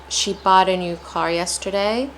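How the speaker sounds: careful, measured reading, rising on "yesterday"; slow practice reading. Shown as a demonstration. Teacher showing learners to take their time, careful and slow. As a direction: take your time over each word. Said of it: "then apply a normal pace".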